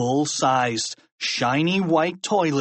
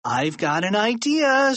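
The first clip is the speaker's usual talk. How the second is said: eager announcement; 8 semitones higher than usual. A narrator's reading. George hatches a plan, building up.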